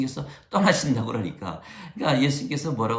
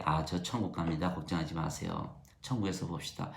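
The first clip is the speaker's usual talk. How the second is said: soft farewell; 8 semitones lower, 9 dB quieter than usual. Retold or imitated. Dying believer comforts family.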